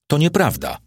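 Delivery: a high, anxious protest; anxious cry. A narrator's reading. Barkus denies the charge, anxiously crying out. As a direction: blurt the denial in alarm. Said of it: "zawołał z niepokojem Barkus".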